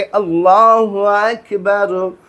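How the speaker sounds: slow, drawn-out imam's Allahu Akbar; a prayer leader calling the takbeer, slow. Retold or imitated. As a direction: stretch it out like the imam leading prayer. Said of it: "इमाम साहब कहेंगे".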